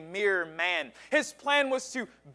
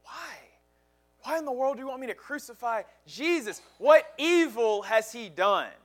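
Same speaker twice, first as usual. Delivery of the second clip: high, fast, bewildered questioning; pleading Pilate; 4 semitones higher, faster than usual. Retold or imitated. Pilate questioning the angry crowd, high and rushed. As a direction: Pilate pushing back against the mob in disbelief. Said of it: "Pilate says".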